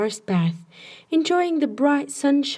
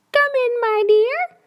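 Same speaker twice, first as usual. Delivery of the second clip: much higher, squeaky wolf pretending to be granny; 13 semitones higher, 4 dB louder than usual. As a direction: squeak it like a wolf faking sweetness. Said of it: "called the wolf in a squeaky voice".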